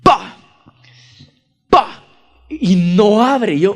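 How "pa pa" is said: kick sounds. Retold or imitated. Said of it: "empiezo a patear la puerta".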